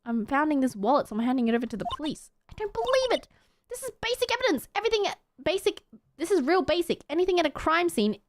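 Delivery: high-pitched, fussy lecturing voice; indignant young investigator. Acted. Young investigator correcting a lawyer, high indignant voice. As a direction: lecture him in a high, exasperated voice.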